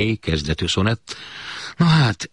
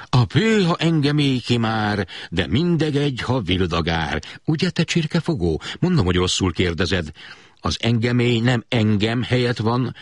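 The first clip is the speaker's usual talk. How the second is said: higher, indignant lecture; lecturing scold; 5 semitones higher than usual. Retold or imitated. Father lectures his son on grammar, exasperated. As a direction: set the boy straight, exasperated.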